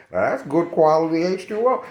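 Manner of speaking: hyped-up catchphrase, pitched high; hyped quote. Shown as a demonstration. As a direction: sell it like a slogan. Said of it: "Y'all, if y'all know that".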